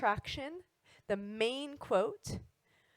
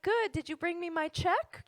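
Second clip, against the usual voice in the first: cheeky joke; 8 semitones higher than usual. Retold or imitated. Joking with the mailman.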